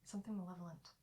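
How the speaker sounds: softly voiced, ominous; name the danger under your breath; quiet, grave confiding; hushed foreboding. Character confides an ominous fear.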